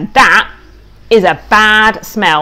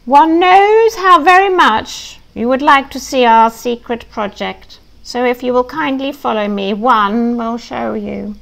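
slow, higher, mock-posh English accent; silly posh accent; 4 semitones higher than usual. Evil chicken inviting pig to see secret, silly posh accent. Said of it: "speak it very slowly and very loudly with silly posh sounding accents".

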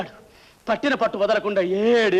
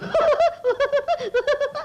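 a shrill put-on lady's giggle, very high; high mock giggle. Man mimics the tickled white lady: high giggle. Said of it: "అని నవ్వింది".

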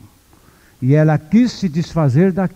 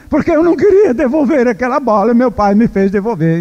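put-on higher, whiny child's voice; sulky crying boy; 7 semitones higher, 3 dB louder than usual. Boy explaining to mother why he cries, higher whiny sulk. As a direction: whine like a boy who lost his ball.

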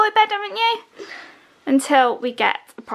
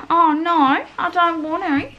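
put-on whiny Australian kid; 4 semitones higher, 3 dB louder, slower than usual. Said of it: "They always sound like Australian kids".

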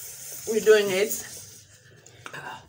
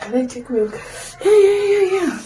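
mouth burning from spicy food; 10 semitones higher than usual. Real, not acted. Desperate for milk, spicy.

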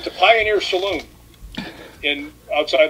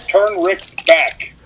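very slow, drawn-out spectral voice; ghost voice on tape; 2 semitones higher, much slower than usual. Retold or imitated. Ghost caught on tape calling Rick back, in a slow eerie voice. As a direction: drag it out like a voice from beyond. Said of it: "a voice said".

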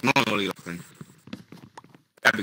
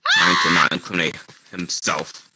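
shouted, lower, exasperated; loud outburst; 4 semitones lower, 5 dB louder than usual. Real, not acted.

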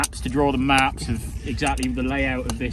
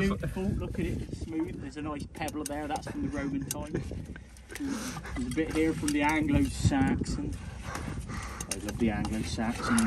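lightly voiced telly dig presenter, marvelling; TV archaeologist; 3 semitones higher, 4 dB quieter than usual. Friend showing off pottery as a mock TV archaeologist. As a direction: gush over the finds like a light mock TV archaeologist.

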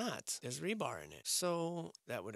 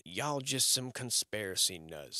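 mocking Reddit dude; 3 dB louder, slower than usual. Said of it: "said some dude on Reddit".

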